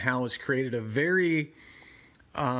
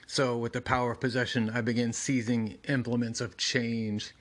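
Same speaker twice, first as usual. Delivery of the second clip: lightly voiced ancient monster; a hint of a menacing demon. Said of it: "doing monster voice".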